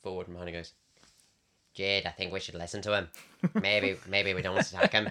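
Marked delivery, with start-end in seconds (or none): 1.7-5.1 put-on slight touch of a Northern Irish accent. Retelling what a character said to the group, Northern Irish accent. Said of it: "That's a bit of Northern Irish accent".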